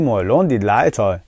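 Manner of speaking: "مالون دید لای تای" run together quickly; quick fluent version. Shown as a demonstration. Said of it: "اینقدر تکرار کنید که سریع بتونید بگید". (سریع و سرهم)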